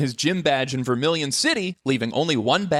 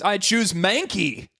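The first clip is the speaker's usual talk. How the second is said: gym leader voice; 7 semitones higher, slower than usual. Acted. Gym leader picks Pokemon.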